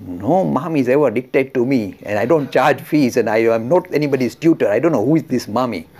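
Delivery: a proud teacher brushing off mommy; the proud guru refuses to be anybody's tutor, firmly; indignant guru. Retold or imitated.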